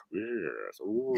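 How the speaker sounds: hushed serious chat-show voice; serious Kenneth Williams. Acted. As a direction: sound grave and serious on TV. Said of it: "he has a very serious voice".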